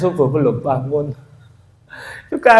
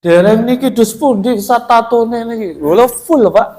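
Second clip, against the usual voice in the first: voicing the patient; 7 semitones higher, 4 dB louder than usual. Voices the patient showing his tattoos.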